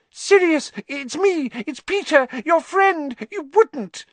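high squeaky grovelling plea; grovel, high and desperate; obsequious. Acted. Pettigrew begs on his knees.

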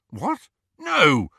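fast, loud defensive reply. A narrator's reading. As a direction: push back defensively, quickly. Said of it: "he said defensively".

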